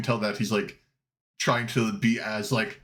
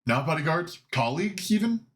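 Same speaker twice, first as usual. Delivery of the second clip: curious guild member; 6 semitones higher, faster than usual. Acted. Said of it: "he goes".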